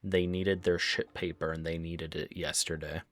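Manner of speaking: ordinary delivery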